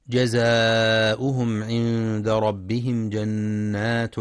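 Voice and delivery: slow, drawn-out tajweed chant; Quran recitation. Shown as a demonstration. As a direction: recite the verse slowly, stretching the vowels. (تلاوة مجودة بطيئة)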